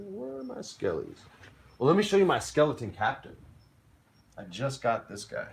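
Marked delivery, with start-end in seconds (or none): 0.0-1.2 high playful question. Real, not acted. Searching for skeleton miniature.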